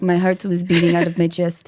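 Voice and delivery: shaky attempt at an Italian accent gone Russian; Italian accent slipping toward Russian mob. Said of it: "whenever I try to do an Italian accent".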